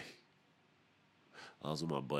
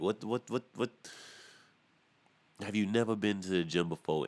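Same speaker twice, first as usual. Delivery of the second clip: can't believe what you're seeing; rising stunned disbelief; incredulous; 6 semitones higher, 3 dB louder than usual. Real, not acted. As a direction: pitch climbing higher on each what. Disbelief at gym in Timbos.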